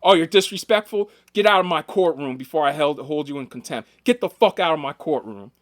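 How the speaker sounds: loud retold courtroom outburst; mock angry judge. Judge throwing a maintenance worker out of court, mock yelling. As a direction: imitate a judge yelling, bursts of volume. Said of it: "judge in Texas who was screaming".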